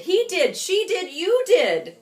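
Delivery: high, loud finger-pointing; blaming. Acted. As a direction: accuse everyone in turn. All blaming each other.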